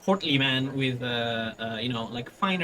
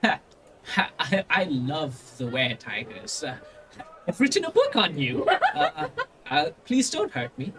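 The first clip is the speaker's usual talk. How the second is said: a touch of nervous laughter; nervous fanboy. Acted. Noble meeting the tigers, nervously fawning. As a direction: gush and plead at once. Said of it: "he just goes".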